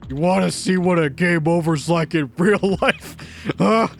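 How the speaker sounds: intimidate him, spitting every word; furious thug. Acted. Producer threatening to sink the developer in Tokyo Bay, furious.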